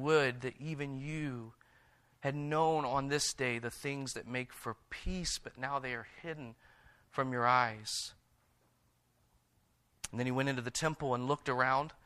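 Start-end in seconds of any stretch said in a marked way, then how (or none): 0.0-8.1 slow, hushed, grieving words; a lament, much softer and slowed; weeping. A narrator's reading. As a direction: speak it softly and slowly, near tears. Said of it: "Jesus began weeping".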